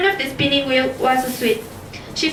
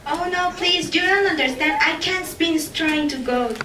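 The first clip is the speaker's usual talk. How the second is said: put-on pleading girl; 3 semitones higher, 3 dB quieter than usual. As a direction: beg the king to understand.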